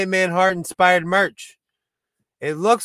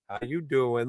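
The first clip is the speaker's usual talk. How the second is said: Joey "How you doing"; 4 semitones lower, 7 dB quieter than usual. Retold or imitated. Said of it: "Joey from Friends".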